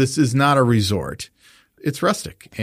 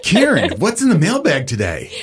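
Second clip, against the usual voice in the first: bright, higher, louder host intro; enthusiastic; 6 semitones higher, 3 dB louder than usual. Acted. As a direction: pump it up like a show host. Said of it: "We're gonna need some more enthusiasm than that".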